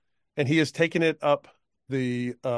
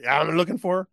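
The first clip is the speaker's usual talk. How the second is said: put-on drunk cowpoke; 4 semitones higher than usual. Drunk cowpoke offering the woman a ride, high and loose. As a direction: slur it like a tipsy old man.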